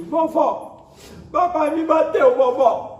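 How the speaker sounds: put-on high, loud child's wail to grandma; tearful child. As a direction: imitate a little girl crying out, high and loud. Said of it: "saiu chorando". (imitando criança chorosa, voz aguda e alta)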